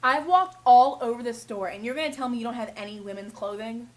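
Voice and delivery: loud, indignant complaint; angry customer. Retold or imitated. Woman customer complaining to the clerk, indignant. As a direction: demand it in outrage. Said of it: "and she goes".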